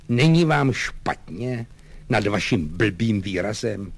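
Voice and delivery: lightly voiced scolding officer; slow, heavy stress on the insults; exasperated lieutenant. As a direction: press the servant for an answer. Lieutenant scolds his servant.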